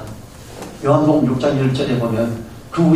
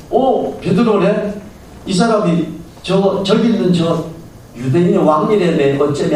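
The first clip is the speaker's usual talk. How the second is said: gossiping bystander; 5 semitones higher than usual. Retold or imitated. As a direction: point him out like a curious busybody. Bystander gossiping about Peter. (높고 느리게 수군대는 구경꾼 말투)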